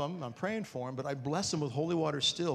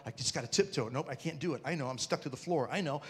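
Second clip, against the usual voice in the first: nervous inner whisper; 3 semitones lower, 5 dB quieter than usual. Retold or imitated. Afraid to approach sleeping wife.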